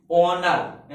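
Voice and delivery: "ऑनर" beginning straight on the vowel, no H; drawn-out model of "ऑनर" with the first letter silent. Shown as a demonstration. Teacher shows class how it is read, "ऑनर" without H. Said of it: "ऐसा पढ़ते हैं".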